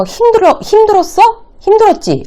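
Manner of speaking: high-pitched demo of asking 힘들었지; leading questions. Shown as a demonstration. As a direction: press with 힘들었어, then 힘들었지. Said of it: "라고 하면".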